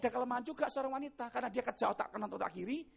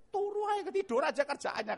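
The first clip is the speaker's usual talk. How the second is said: retold grumble; 6 semitones higher than usual. Wife grumbling about husband, retold.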